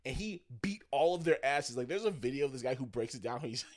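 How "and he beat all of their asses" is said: loud, excited storytelling; getting loud. Real, not acted. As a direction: punch out the story, carried away. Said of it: "I'm getting really loud into it".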